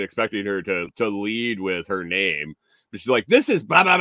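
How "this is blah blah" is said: put-on high old lady voice. Old woman quoted.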